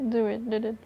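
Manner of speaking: stiff robotic delivery. Real, not acted. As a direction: say it like a machine. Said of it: "You sound like a robot".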